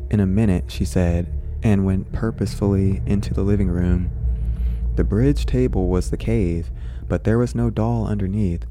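calm storybook reading voice; story narration. A narrator's reading. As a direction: read it like a bedtime story. Reads the story aloud.

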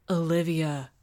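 firm name-call to cut through panic; understated urgency; hard and urgent. A narrator's reading. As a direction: say the name firmly to get attention. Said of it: "his voice hard and urgent".

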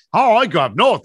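lightly cheerful retelling of the caller; imitating him perking up a little; a touch jovial. Speaker shows how the caller warmed up, lightly jovial. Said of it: "slight bit of joviality there".

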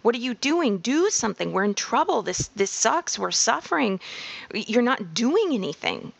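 pitched and panicked. Acted. Speaker voicing the panicked inner voice that pushes change, mildly frantic. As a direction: play the frantic inner voice nagging you to act. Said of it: "sounds pitched and panicked".

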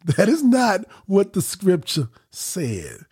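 slow and deliberate, every word weighed; said slowly. Shown as a demonstration. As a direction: spell it out slowly for the congregation. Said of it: "Let me say this slowly".

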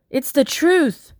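sudden high blurt, slowed, pushed out in protest. Acted. Slave girl blurting to the master, high and pleading. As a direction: burst out before she can stop herself. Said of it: "I blurted out".

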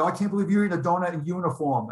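playfully quoting a teasing remark. Retold or imitated. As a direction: imitate her poking fun, light and fast. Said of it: "she's making fun of me".

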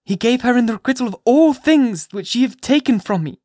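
high, loud, impassioned mother at bay; fierce defiance. A narrator's reading. Hester to the magistrates, fiercely refusing to give up Pearl. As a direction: defy them as if ready to die for her. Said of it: "this wild and singular appeal".

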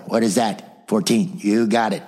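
ordinary delivery

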